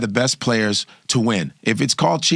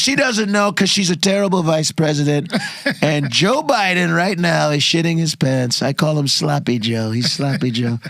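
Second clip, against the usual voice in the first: Trump impression. Holds Trump voice.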